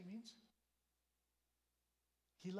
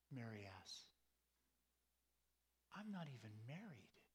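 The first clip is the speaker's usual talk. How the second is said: bewildered Mary. Acted. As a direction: let each question hang in disbelief. Mary voiced, bewildered questions.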